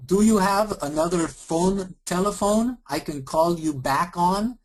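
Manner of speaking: a mock Indian agent repeating the question; hammed-up Indian accent; bad Indian accent. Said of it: "really bad Indian and Eastern European accent".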